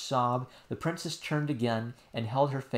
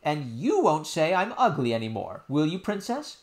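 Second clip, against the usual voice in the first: hurt nurse; 4 semitones higher, 3 dB louder than usual. Acted. Nurse voiced.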